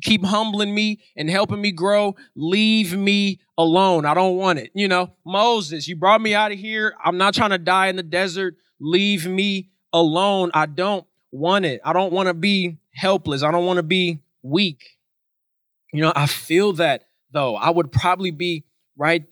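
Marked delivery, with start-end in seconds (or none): 0.0-4.7 flustered complaint. Acted. Flustered Israelites complaining to God, exasperated. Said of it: "They are flustered right now". 5.2-15.0 mildly acted fed-up protest; a touch of exasperation, stretching the refrain; flustered complaint. Flustered Israelites complaining to Moses in the desert, exasperated. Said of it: "They are flustered right now".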